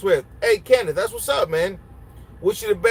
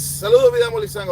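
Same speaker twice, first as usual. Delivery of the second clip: much higher, quick playful hello; greeting a viewer in a much higher, quicker voice; high fast greeting; 3 dB louder, faster than usual. Real, not acted.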